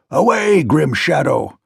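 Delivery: a scared king crying out at a phantom; frightened cry. A narrator's reading. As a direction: shrink back and cry out at a ghost. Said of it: "he cried".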